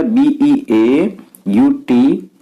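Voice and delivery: slow letter-by-letter बी ई ए यू टी; teacher dictating letters very slowly; spelling aloud. Shown as a demonstration. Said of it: "beauty की spelling".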